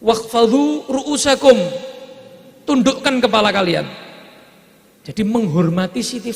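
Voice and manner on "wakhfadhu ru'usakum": louder, slow solemn Arabic; solemn proclamation. Acted. Divine call to bow heads, slow and solemn. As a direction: intone it slowly, commanding.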